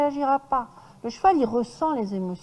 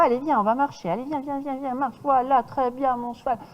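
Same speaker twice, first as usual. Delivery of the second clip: brisk, rhythmic; 2 semitones higher than usual. Shown as a demonstration. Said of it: "plus de rythme dans ma voix".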